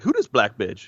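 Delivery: lightly put-on Black accent; a hint of Black accent in the mock quote; imitated Black accent. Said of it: "he says that in a black accent".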